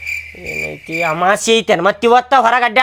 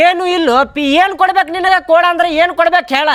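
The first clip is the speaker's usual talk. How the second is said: irritated brush-off; 5 semitones higher, faster than usual. Acted. Husband shoos beggar away.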